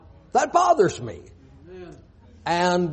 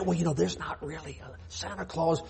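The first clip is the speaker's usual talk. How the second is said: hushed, much softer aside; mock furtive whisper; 2 semitones lower, 12 dB quieter, faster than usual. Preacher imitating believers afraid of being overheard, furtive whisper. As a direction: say it under your breath, as if nobody should hear. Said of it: "Everyone would whisper to themselves".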